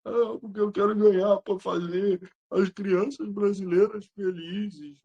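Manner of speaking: slow, lightly whiny mock plea; put-on sob-story voice; mock crying player. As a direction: imitate a tearful athlete, hammed up. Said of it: "se tu tá chorando diante do jogo".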